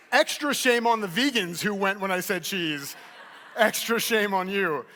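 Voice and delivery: slow, drawn-out mock shaming; mock scolding. Real, not acted. Speaker teasing vegans in audience, slow mock scolding. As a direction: slowly shame them, tongue in cheek.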